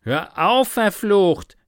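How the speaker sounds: high, loud order; exasperated shout; exclaiming. A narrator's reading. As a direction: cry out to make him stop. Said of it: "rief Jake aus".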